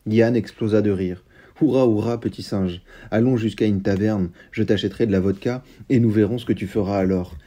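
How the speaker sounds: steady, measured storybook reading; story narration. A narrator's reading. A reviewer reading the novel's extract aloud, in a calm narration voice. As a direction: read the tale to the listeners.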